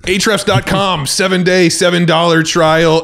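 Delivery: slow, lightly voiced announcer. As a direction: sell it like a radio ad read. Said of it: "So let's restart".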